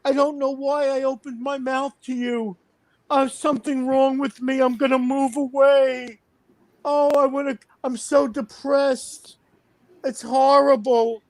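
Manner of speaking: high, whiny mock sob of a grown man on the phone; mock crying whine. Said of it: "he starts crying on the telephone. Crying".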